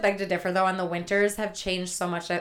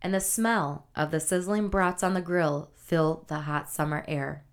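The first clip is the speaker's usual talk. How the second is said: poetic reading; 3 semitones lower than usual. Acted. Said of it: "That was a good haiku".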